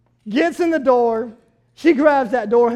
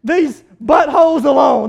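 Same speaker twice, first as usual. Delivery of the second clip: retold angry call; 4 dB louder than usual. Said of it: "I said something much more fleshly than that".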